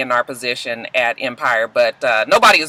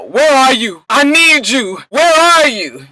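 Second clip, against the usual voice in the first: higher, louder frantic yell; mock screaming; 10 semitones higher, 6 dB louder, slower than usual. Poe yelling for Rhonda, mock frantic scream. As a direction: cry out desperately for her. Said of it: "He's yelling, he's screaming".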